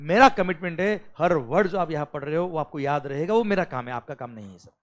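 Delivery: ordinary talk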